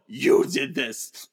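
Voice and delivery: slow, drawn-out reproach after oh, oh, oh. Retold or imitated. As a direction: turn the blame back on him, slowly. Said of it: "But Xavier says".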